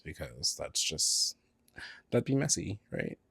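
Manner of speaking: hushed gossip whisper. Real, not acted. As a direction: drop to a secret whisper. Whispered aside about naming names.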